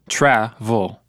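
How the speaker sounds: "travel" with the weight on TRAV; stress on first syllable. Shown as a demonstration. Student shows Marta where the stress falls in "travel". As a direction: lean on TRAV in "travel", let "el" fall away. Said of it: "where's the main stress?".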